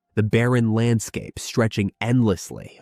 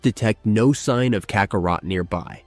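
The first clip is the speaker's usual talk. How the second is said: flat robot voice; robot monotone. Acted. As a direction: read it like a machine. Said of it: "in his monotone voice".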